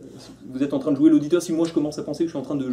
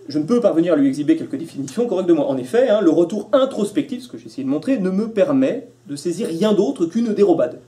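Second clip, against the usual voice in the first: emphatic recitation; 3 semitones higher, 4 dB louder than usual. Real, not acted.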